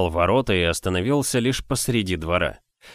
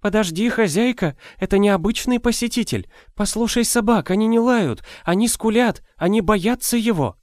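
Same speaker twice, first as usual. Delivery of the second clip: put-on high, strained old nurse; urgent warning from an old woman; old woman whispering; 12 semitones higher than usual. A narrator's reading. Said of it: "прошептала старуха". (шёпот старухи)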